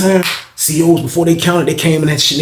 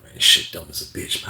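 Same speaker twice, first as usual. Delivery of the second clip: retold whisper; 11 semitones lower, 7 dB quieter than usual. Quiet aside in cell at night.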